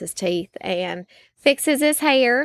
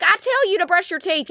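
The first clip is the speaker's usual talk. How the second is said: high mock exasperation; retold scolding; 8 semitones higher than usual. Mom answers son's excuse about brushing, high mock scolding. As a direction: scold in a raised, high pitch. Retells scolding her son.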